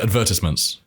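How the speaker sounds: advertisement stressed on VER, ad-VER-tis-ment; British advertisement. Shown as a demonstration. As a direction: stress the second syllable, advertisement. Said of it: "Say it again".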